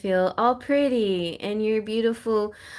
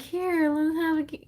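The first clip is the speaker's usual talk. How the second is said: lightly voiced little mouse, pitched high; a hint of squeaky mouse; 9 semitones higher than usual. Mice offering Cinderella help, light mouse voice. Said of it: "they're like, the mice".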